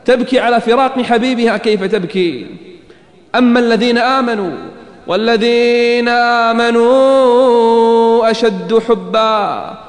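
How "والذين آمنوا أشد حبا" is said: slow, drawn-out chanted recitation; Quran recitation. Acted. Preacher breaks into slow chanted recitation of the verse. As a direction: intone the verse slowly and melodically.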